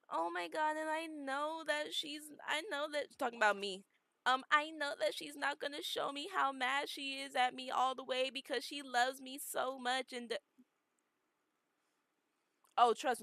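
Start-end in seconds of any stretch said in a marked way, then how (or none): 0.1-10.4 mock sister. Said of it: "she's like".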